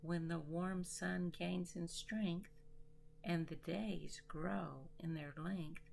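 measured poem reading with deliberate pauses; poetry recital. Acted. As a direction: recite it line by line, letting each phrase rest. Recites own nature poem.

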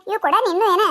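half-amused, teasing query; chuckling, lifted ask; laughing question. Acted. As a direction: ask it with a laugh and a rising end. Same question asked again.

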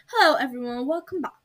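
put-on hostess greeting in a British accent; lightly put-on British accent. Game player voices a character greeting everyone, British accent. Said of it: "I'm gonna give her a British accent".

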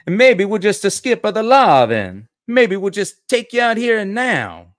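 loud, high-pitched cartoon Italian accent; stereotyped Italian accent. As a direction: play a hammed-up Italian tough guy, high and loud. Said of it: "he's supposed to be a wop, huh?".

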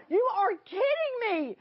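high, excited disbelief; re-enacted ecstatic phone reaction; retold coming unglued. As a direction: exclaim it in thrilled amazement, pitch way up.

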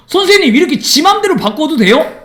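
teacher mimics a student asking if he can change it at will; mock student question. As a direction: play a cheeky student asking sir.

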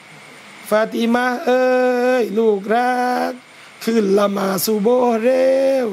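slow, gentle call to a daughter; sweet wake-up call. Shown as a demonstration. Parent waking daughter for dawn prayer, gentle. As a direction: coax her out of bed tenderly. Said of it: "ลองไปเปลี่ยนวิธีนะ เอาตั้งแต่เรียก".

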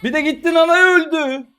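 high, loud exasperated cry; loud frustrated outburst; outraged shout. Real, not acted. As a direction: yell it in disbelief. Exasperated at teammate dying.

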